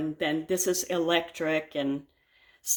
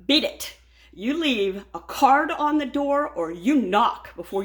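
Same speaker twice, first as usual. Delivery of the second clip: firm, raised, no-nonsense command; stern order; 5 semitones higher than usual. Retold or imitated. Homeowner orders a trespasser off her property, stern and raised. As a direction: send him packing.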